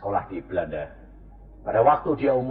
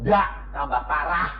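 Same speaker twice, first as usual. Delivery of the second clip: usual speaking voice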